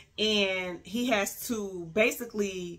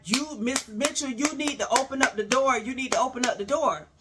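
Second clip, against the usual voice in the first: a hint of a stern marshal, higher; lightly mock the officer's order at the door; voicing the marshals; 3 semitones higher than usual. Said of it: "They like".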